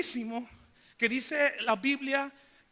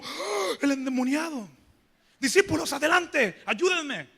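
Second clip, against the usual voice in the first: hammed-up panic, calling for help; mock scared Jesus; 3 semitones higher, 4 dB louder than usual. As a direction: pretend fright, shouting for the disciples. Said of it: "O ven a Jesús como". (Jesús fingiendo susto, gritando a los discípulos)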